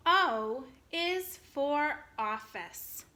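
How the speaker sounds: slow, clear, every word apart; slow model reading. Shown as a demonstration. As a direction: model it for the children. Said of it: "I'm gonna read it to you".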